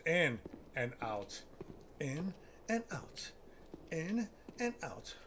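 slow, drawn-out breathing cue; in and out said slowly, steadying breath; slow breathing count. Shown as a demonstration. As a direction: pace it like a slow breathing exercise. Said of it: "that's actually backwards".

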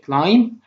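"climb" ending on M, no B; silent B. Shown as a demonstration. Teacher showing pupils "climb" with the B silent. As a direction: say "climb" as "clime". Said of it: "حرف البي silent".

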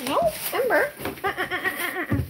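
high playful no. Real, not acted. Telling puppy no.

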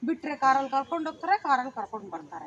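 casual line reading, falling away at the end; casual, normal. Shown as a demonstration. Director shows the actor how to say it normally, casual. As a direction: say it matter-of-factly, not like tattling. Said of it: "normal ಆಗಿ ಹೇಳು".

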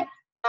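啊 rising from mid to high; second tone. Shown as a demonstration. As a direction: lift 啊 upward like a car climbing. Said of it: "声音是向上扬的".

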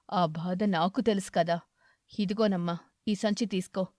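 kindly aged beggar, content; grateful old eagle. Acted. Eagle character voice.

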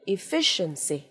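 "Efficiency" as "i-FISH-uhn-see"; careful teacher's "Efficiency", falling at the end; heavy sh plus schwa. Shown as a demonstration. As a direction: model "Efficiency" with a clear "sh" and weak "uh". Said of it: "Đây là âm sờ này, sờ nặng là ơ này".

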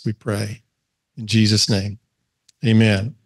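measured public prayer with long pauses; earnest, unhurried closing prayer. Real, not acted.

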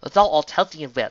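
regal, booming formal speech; overly loud. A narrator's reading. Luna addresses Twilight on next steps, overly loud. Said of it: "several times louder than it needed to be".

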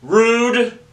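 high, loud, offended snap. Acted. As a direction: toss it off indignantly up high. Offended character retort.

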